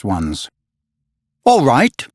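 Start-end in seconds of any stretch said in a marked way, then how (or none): 1.4-2.1 bitter smile. A narrator's reading. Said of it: "Peter replied with a bitter smile".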